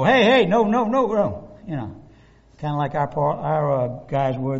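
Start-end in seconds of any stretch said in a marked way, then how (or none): 0.0-1.5 mock heckling. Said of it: "Those guys go".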